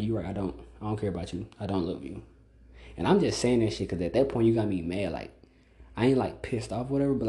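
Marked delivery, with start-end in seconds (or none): 0.0-2.2 cold dismissive reply. Retold or imitated. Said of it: "I'm like".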